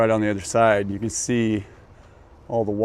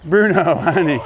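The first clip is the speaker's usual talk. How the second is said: pet voice; 6 semitones higher, 5 dB louder than usual. Real, not acted. Sweet talk to the dog.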